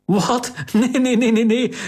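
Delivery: high, flustered laughing no-no-no; laughing denial. A narrator's reading. Host laughing off Cariline's misunderstanding, voice pitched high. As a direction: wave off the mistake with a laugh.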